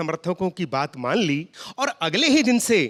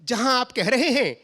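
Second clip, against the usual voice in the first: formal pure hindi. Retold or imitated. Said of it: "तो हमने कहा".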